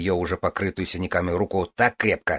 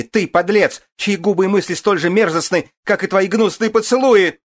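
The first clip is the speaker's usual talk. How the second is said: screaming tirade; 10 semitones higher, 6 dB louder than usual. A narrator's reading. Wife's furious tirade.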